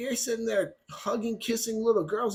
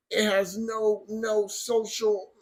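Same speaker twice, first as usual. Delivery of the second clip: mock mumbling; slower than usual. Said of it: "and then he mumbles".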